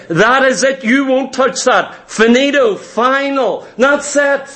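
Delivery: mildly acted stern finality; firm ultimatum. Preacher mimics parent at the limit with child, firm ultimatum. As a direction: put a firm stop to it.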